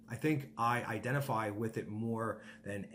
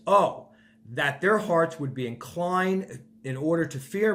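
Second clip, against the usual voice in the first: high, loud, yearning cry of longing; God's longing plea; 4 semitones higher, 7 dB louder than usual. Acted. God pleading with Israel, high and loud with longing. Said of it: "and God says".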